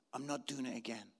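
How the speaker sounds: very soft, low and deflated; dejected refusal. Retold or imitated. Husband to excited wife in the car after criticism, dejected. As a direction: mutter it low, as if giving up.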